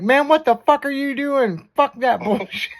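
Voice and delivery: high, rough imitation of Ricky. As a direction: yell it like a stoned Ricky. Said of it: "Ricky was like".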